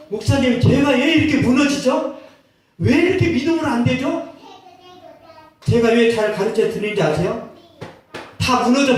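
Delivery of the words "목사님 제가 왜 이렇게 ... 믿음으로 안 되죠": high, loud plaintive question; pleading believer. Retold or imitated. Believer begging the pastor for help, high and pleading. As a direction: plead with your pastor, higher and louder.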